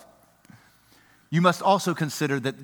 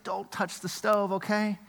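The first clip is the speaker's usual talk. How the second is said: hushed, tender warning; dad softly warns his little girl; soft parent voice; 2 semitones higher, 7 dB quieter than usual. Retold or imitated. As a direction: gently hold her and warn. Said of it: "You're like".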